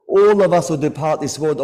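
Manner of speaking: sustained loud lament; loud mournful cry. Real, not acted. Preacher to mourners, loud grieving cry. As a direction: cry it out to the hall.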